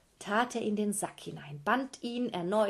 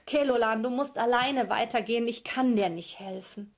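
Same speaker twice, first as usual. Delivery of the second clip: frightened turtle; 3 semitones higher, 5 dB louder than usual. Acted.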